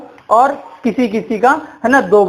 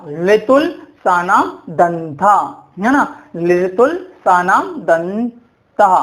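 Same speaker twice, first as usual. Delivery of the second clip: slow recited mnemonic; 2 semitones lower, slower than usual. Shown as a demonstration. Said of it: "ठीक, दंत".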